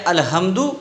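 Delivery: الحمدو with a light ordinary h in place of ح; mistaken plain h. Shown as a demonstration. Teacher shows a faulty recitation, plain h. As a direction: leave the throat loose on the h of الحمدو. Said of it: "تو یہ غلط ہو گیا".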